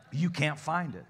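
can't said through a light laugh; laughing repeat. Real, not acted. Preacher repeating his dare to the congregation, laughing. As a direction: chuckle it, relaxed now.

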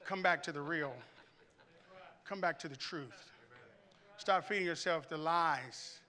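soft, calm plea; God calling the congregation back; gentle divine call. Acted. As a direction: call them home gently. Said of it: "God is saying".

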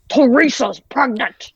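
put-on slow, old-Hollywood transatlantic accent; drawn-out transatlantic accent delivery. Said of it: "her signature transatlantic accent voice".

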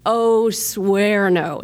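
put-on a slow, drawn-out teenage no; imitating a son's flat refusal, stretched out; mock refusal. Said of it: "strongest bad word I know".

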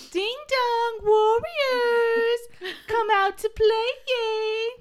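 high, loud sing-song taunt; taunting singsong. Retold or imitated. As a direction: call them out playfully.

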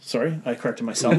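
laughing at himself; words breaking into a chuckle; trying not to laugh. Real, not acted. Embarrassed slip, laughing at himself.

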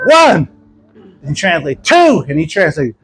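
calling out count. Retold or imitated. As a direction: call each number out. Counting to blind people.

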